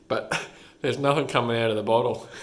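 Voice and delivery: tickled, laugh breaking in around the words; real amused giggle in the voice. Real, not acted. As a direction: say it through a chuckle. Amused by comic panel.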